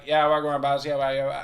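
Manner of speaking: lightly imitated Jamaican patter; Jamaican accent. Mimicking white Jamaicans chatting, Jamaican accent. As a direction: run it together in a casual Jamaican accent. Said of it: "no fucking around with that accent".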